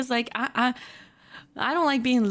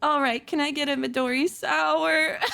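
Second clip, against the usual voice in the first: resigned, mildly dejected order; understated defeat in a retold order. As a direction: give up and order a drink. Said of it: "literally defeated".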